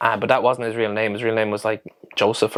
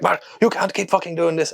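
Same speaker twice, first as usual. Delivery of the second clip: Sandro; 7 semitones higher than usual. Retold or imitated. Boss ringing about the escaped cows, mock-angry high voice. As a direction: mimic an exasperated boss complaining. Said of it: "he started screaming down the phone at me".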